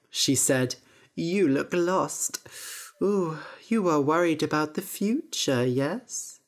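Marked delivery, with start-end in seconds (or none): 1.1-6.4 creaky voiced crone greeting; old witch. Witch greeting Jack at the market, witchy voice. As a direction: lure the boy in, witchy.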